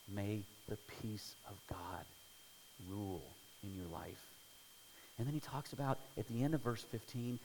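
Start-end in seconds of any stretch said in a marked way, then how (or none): 0.1-4.3 soft blessing. Real, not acted. Blessing over the congregation.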